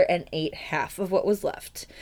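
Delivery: hushed secret telling; whispered. Real, not acted. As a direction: drop to a conspiratorial whisper. Whispered aside in narration.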